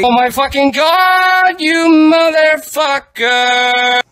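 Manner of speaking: high, loud shocked yelling; shocked shout. Real, not acted. Walking in on roommate, shocked high shout. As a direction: scream in disbelief.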